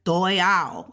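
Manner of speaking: "duo yao" with the sh of shao dropped; contracted Mandarin "duo yao", no sh sound; skipped syllable. Shown as a demonstration. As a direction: run "duo" straight into "yao". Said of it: "They don't even say the shao part".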